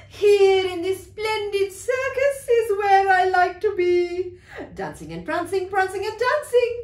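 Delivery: lightly voiced show-off horse; proud circus horse. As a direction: revel in the spotlight. Horse revelling in circus life.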